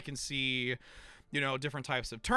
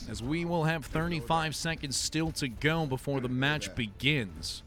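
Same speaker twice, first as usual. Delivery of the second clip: radio DJ voice. Acted. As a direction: greet listeners like an on-air DJ. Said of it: "you literally sound like a radio D J".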